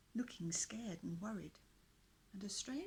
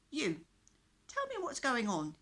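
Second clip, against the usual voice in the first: commanding; 6 semitones higher, 9 dB louder than usual. Acted. Knight commanding the prisoners.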